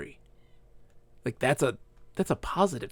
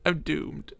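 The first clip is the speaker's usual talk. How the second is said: whisper; 5 dB quieter than usual. Real, not acted. Drunk streamer laughing at himself.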